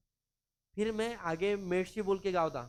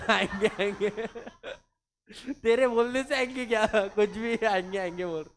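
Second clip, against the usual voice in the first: loud, scoffing retort with a laugh; mock boss jeering back; 4 semitones higher, 7 dB louder than usual. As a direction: scoff at him loudly and higher. Boss mocking the employee's excuse.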